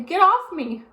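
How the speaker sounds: high, loud please; beg, strained; pleading man. A narrator's reading. Man pinned by a pig begs. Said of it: "said Mister Watson".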